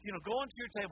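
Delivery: a waiter holding back irritation, keeping it polite; lightly voiced annoyed waiter; ticked-off waiter. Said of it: "He goes".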